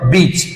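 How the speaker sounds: बीच with a long ee; long vowel. Shown as a demonstration. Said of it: "थोड़ा सा जोर लगा के बोलूं".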